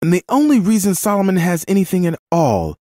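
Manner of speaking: calling out loudly. A narrator's reading. Woman calling out as the man stomps off, loudly. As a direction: call it out for all to hear. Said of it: "the woman called out loudly".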